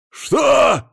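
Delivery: very high loud shocked yelp; startled outcry. Acted. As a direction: leap up with the word. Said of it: "в третий раз подпрыгнул".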